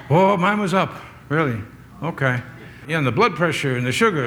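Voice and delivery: put-on lightly caricatured old folks' chat; mock elderly health talk; old people talking. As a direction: imitate old-timers comparing ailments. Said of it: "Old people talk like that".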